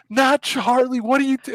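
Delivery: retelling crying over the dog; tearful denial. Retold or imitated. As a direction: cut off by grief. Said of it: "so I was like".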